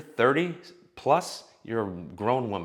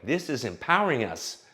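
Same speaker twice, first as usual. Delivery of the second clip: mocking empowered women; 5 semitones higher than usual. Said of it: "where all women feel like".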